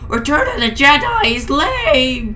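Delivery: high, loud yell; mock scream. Slinky Dog screaming his verdict on the film, high and loud. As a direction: scream it at the room. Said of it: "before screaming".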